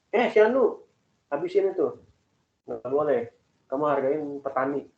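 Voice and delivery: imitating a stepfather's scolding, pitched high at first, then easing; mock angry scolding. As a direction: act out a cross parent at mealtime. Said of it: "dia marah-marah, bilang gini".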